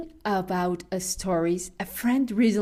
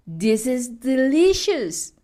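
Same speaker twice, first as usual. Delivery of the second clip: higher, louder mock delight; delighted exclamation; 6 semitones higher, 6 dB louder than usual. Friend who was mad tastes the matambre, imitated delight. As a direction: imitate a friend suddenly thrilled by a bite. Friend won over by the food.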